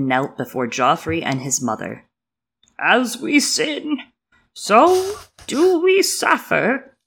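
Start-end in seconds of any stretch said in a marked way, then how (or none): 2.8-7.0 slow, booming high priest intoning; deep swelling intoning. Acted. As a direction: intone it like a sermon from the steps. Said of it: "he intoned in a deep, swelling voice".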